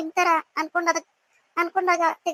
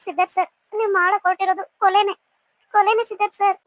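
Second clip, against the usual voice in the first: raised, emphatic tearful protest; tearful accusation; 2 semitones higher, 4 dB louder than usual. Acted. Pregnant woman tells her lover it is murder, tearful accusation. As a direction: accuse him through tears, louder on the repeat. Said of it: "ಅಳ್ಬೇಡ, ನಾನ್ ಹೇಳೋದ್ ಕೇಳು".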